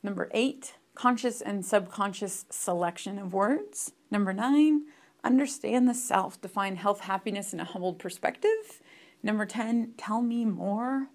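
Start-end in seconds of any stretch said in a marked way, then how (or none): none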